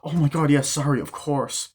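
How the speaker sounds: high, airy fake apology; hammed-up bratty sorry; sarcastic kid.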